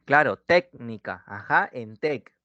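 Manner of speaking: técnica said slowly, weight on téc; slow stress. Shown as a demonstration. Teacher confirming the student's answer, slow with stress on téc. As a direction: drag out técnica, pressing the first syllable. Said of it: "cuál será en técnica".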